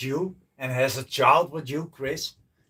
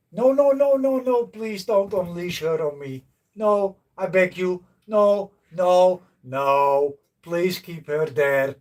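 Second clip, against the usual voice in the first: mock pleading; 3 semitones higher than usual. Begging a viewer to keep his wife away, hammed-up high pleading. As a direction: beg for mercy in mock terror.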